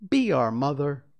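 put-on high and loud begging boys; pleading cry. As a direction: beg her to be their mother.

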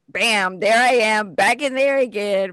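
normal talking voice

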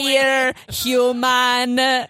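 calm breathy gray alien. Acted. Alien speaks.

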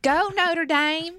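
high, slow Southern-tinged cheer; mock fan cheer. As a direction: draw out "Go Notre Dame" like a mock fan. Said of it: "Oh my God, you sound".

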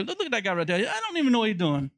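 put-on light, quick Geechee-accented grumble; dad's Geechee accent. Son imitating dad's commentary on other drivers, light Geechee accent. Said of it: "I do it in my dad's accent. My dad's a Geechee".

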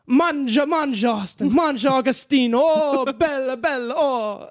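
loud Italian uncle, singsong, high; booming sing song welcome. Retold or imitated. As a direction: call it out like a big welcoming uncle. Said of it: "my uncle be like".

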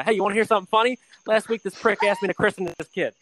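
high put-on mob voice; wiseguy storytelling. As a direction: tell it like the gangster at the table. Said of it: "He's like".

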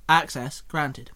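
slow computer announcement; calling out. Acted. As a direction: announce it slowly like a robot. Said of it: "Alpha Prime called out".

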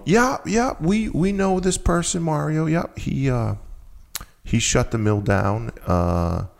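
imitating a cool, high-pitched town official; cold official. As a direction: put on a distant, unwelcoming clerk. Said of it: "But it was very cold".

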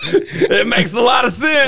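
high, slow, laughing shout; excited shout. Real, not acted. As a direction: yell it out while cracking up. Cracking up at the joke.

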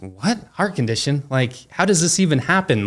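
retold disbelief, pitch climbing through the questions; incredulous. Dad replays his reaction to the nurse's news, incredulous. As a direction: question it in rising, baffled disbelief. Retelling shocked reply to nurse.

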